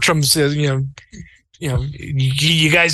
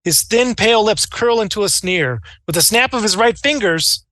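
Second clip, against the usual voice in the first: dramatic narration. Acted. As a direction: build the tension line by line. Game master dramatic scene narration.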